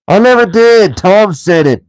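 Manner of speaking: high, loud troll denial; troll William blaming Tom; indignant troll. A narrator's reading. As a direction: deny it, offended. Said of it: "said Bert".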